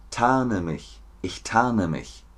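TARNE as "taane", no R; silent r in TARNE. Shown as a demonstration. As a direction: drop the R from tarne. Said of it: "Stummes R".

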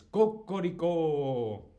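slow mock rooster call, German version; rooster crow. Shown as a demonstration. Teacher showing the German rooster sound. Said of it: "en alemán es".

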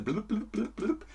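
high, soft gulping blubs; imitated drinking gurgle; gurgling blub. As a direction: gurgle like beer glugging. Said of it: "imitating drinking sound".

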